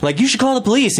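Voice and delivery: high, aghast imitation of onlookers; acted-out alarm; shocked bystanders. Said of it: "bystanders who are like".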